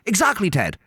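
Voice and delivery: high naive Irish-priest voice; Dougal. Retold or imitated. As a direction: play the clueless sidekick. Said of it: "And Dougal goes".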